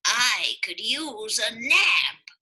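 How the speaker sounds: loud yawning groan, slow. Acted. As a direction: yawn through the words. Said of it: "Amos yawned".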